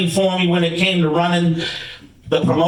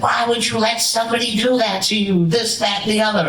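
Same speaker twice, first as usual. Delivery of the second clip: higher, mock angry scolding; a hint of a furious veteran; retold angry yelling; 5 semitones higher than usual. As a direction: replay the veteran's tirade half-heartedly. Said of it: "He exploded on me, like, yelled at me".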